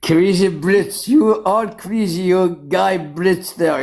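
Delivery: slow, drawn-out playful teasing; mock-scolding the Brits, slow and laughing; teasing drawl. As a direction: stretch it out to tease the Brits. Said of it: "Crazy British".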